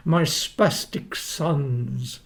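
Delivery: slow, drawn-out mock of Frank; imitating Frank. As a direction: drag out the words the way Frank sneered them. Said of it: "he used to say".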